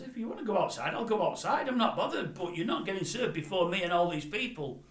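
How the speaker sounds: loud, high, fearless reply; unbothered comeback. Retold or imitated. Roy Haggerty accepts the challenge, loud and unbothered. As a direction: accept the fight without a flinch. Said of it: "And this fella says".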